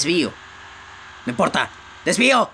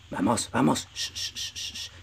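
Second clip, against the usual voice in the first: low hushed urging into shushes; sigilo; 11 dB quieter than usual. Pretend. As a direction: sneak along, barely audible. Sneaking up on hidden enemy. (susurrando con sigilo)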